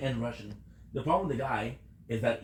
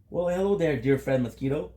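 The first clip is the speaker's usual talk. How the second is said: mock greeting; 2 semitones higher, 5 dB louder than usual. Greeting a mosquito that bit him, loud mock cheer. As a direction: greet the bug like an old pal, hammed up.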